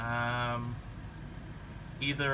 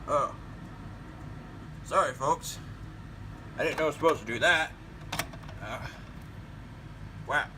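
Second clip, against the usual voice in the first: put-on old man voice. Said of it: "an old man voice".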